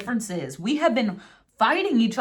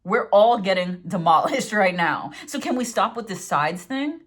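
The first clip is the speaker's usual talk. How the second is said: worked up. Real, not acted. Tarot reader urging an end to sides, worked up. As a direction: hit the opening words hard, venting. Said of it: "I'm getting worked up".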